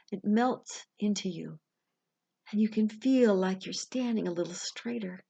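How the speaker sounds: measured meditation voice with long pauses; guided visualization. Acted. Life coach leading listeners through an imagined elevator ride, guided meditation. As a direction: guide them gently, phrase by phrase, leaving room to breathe.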